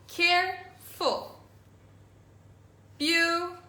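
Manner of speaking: each word drawn out slowly for the class; slow model reading. Shown as a demonstration. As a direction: read each word slowly and clearly, like a teacher. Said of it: "teacher models vocabulary words slowly".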